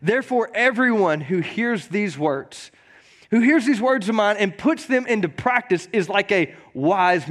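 measured, slow Bible reading; scripture reading. Acted. Pastor reading Matthew to the congregation, measured. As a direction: read the verses with weight.

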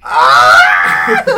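loud startled yell. Real, not acted. Startled shout.

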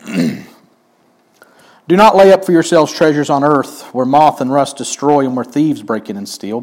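solemn, measured reading of the passage; scripture reading. Acted. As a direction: read God's words with gravity. Reads scripture aloud.

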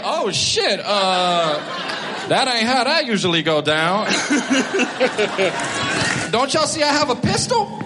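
rattled gangster, rising high at the end; a hint of a confused tough guy losing control; flustered gangster. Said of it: "He'll be like".

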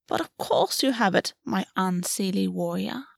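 soft welcoming fey queen; warm. Acted. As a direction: gently welcome him in. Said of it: "her voice warm".

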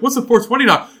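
put-on clueless kid asking; baffled question. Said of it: "And I'm like".

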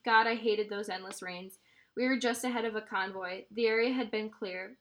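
steady read-aloud narration with voiced dialogue; story reading. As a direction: read the novel aloud to listeners. Reads novel aloud.

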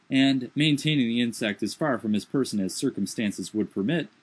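ordinary delivery

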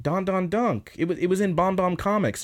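high-pitched geeky voice; excited nerd. Retold or imitated. Sasaki telling her about comics he likes, high nerd voice. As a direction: imitate a boy gushing over his hobby. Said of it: "the nerd thing where he's talking".

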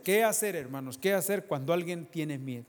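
loud, high shouted question; fiery pulpit shout; preaching shout. Real, not acted. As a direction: cry out to the congregation. Preacher climax.

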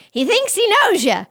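deadpan-ish husband punchline lifted up; Pete's punchline. Retold or imitated. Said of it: "Pete goes".

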